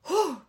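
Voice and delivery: big relieved exhale; loud whew. Real, not acted. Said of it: "Let's all take a breath".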